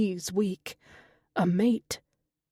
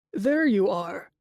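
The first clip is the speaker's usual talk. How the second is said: blunt greeting. Acted. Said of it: "Nico said without preamble".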